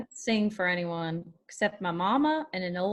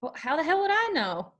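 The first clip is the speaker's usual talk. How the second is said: irritated; 5 semitones higher, much faster than usual. Acted. Charlie snaps at Chet and Bruno.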